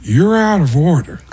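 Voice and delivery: mock courtroom protest in a put-on voice; Al Pacino. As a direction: start an indignant actor's rant, imitated. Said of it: "as Al Pacino".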